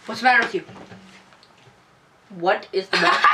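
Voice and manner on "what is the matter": laughing through the words; giggling while asking; hysterical laugh. Real, not acted. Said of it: "laughing so hard".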